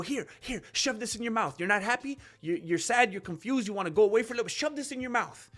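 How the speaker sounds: a quiet, oily push to take the pills; mock pill pusher. Mocking a dealer pushing pills.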